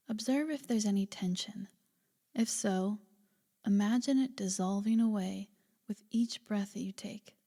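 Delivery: calm, unhurried body-scan guidance; guided meditation. Acted. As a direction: gently lead a listener into relaxation, leaving space between phrases.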